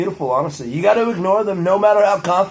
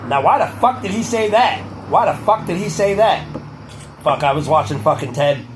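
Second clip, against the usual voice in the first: Boston accent. Real, not acted. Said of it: "There's my Boston accent".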